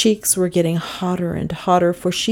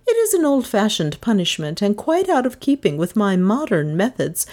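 higher, swooping schoolteacher voice; teacher sentencing pupil; 4 semitones higher than usual. Acted. Miss Todd orders a dunce cap, reproving. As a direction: pronounce the punishment in emphatic rises and falls.

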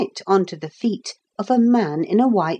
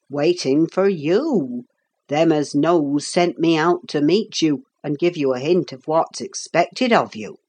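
lightly voiced rustic messenger; a hint of an unhurried old workman; genial old carpenter; 3 semitones lower than usual. Carpenter explaining his errand to the boy, lightly voiced genial workman.

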